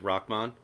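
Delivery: Rahman said as "ROCK-mon"; pronunciation of Rahman. Shown as a demonstration. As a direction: say Rahman softly, with a k sound closing the first syllable. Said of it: "I think it's pronounced".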